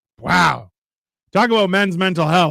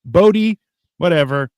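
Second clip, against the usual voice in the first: mock cheery greeting; 6 semitones higher than usual. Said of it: "Dominic Mansell".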